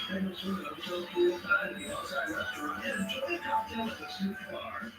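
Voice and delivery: excited game show prize read; booming prize announcer. Acted. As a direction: announce the trip like a showcase host. Prize announcer reads trip.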